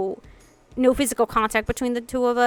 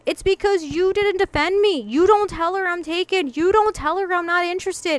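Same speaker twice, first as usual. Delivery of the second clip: raised-pitch, emphatic mock telling-off; retold anger; 4 semitones higher than usual. Confronting friend for never defending her, retold anger. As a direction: lay out the accusation, higher and insistent. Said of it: "I got mad and I basically stood my foot".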